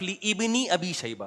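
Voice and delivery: "لابن" split as li-IB-ni, the alif sounded; imitating a misreading. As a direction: read "لابن ابی شیبہ" slowly as "li ibni abi shayba". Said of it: "لوگ اس کو غلط پڑھتے ہیں".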